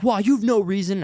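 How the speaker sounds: high, protesting imitation of an angry man; mock indignant objection; retold anger. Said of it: "he just started cussing at me".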